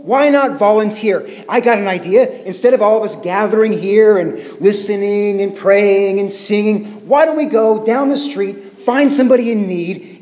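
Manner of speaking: hint of an exasperated dad pleading for practical good; mild mock indignant father; imitating my dad. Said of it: "That's what my dad would say".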